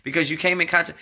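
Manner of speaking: high-pitched mock questioning; imitated reporter's question. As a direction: put on a high, pressing reporter voice. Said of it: "a news reporter asked Donald Trump".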